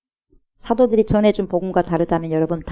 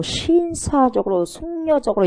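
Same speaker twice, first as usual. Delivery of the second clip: 신사적으로 stretched out slowly, syllable by syllable; slow mocking drawl; 7 semitones higher, slower than usual. Shown as a demonstration. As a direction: draw out 신사적으로 like a sneer.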